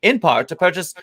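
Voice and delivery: radio voice. Shown as a demonstration. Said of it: "I'm doing this one in radio voice".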